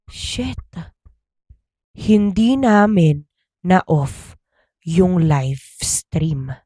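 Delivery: whispered then slow, dismayed; dawning dread. Retold or imitated. Kid realizing the stream is live, whispered slow dread. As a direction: breathe it out in horror. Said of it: "bigla niyang na-realize".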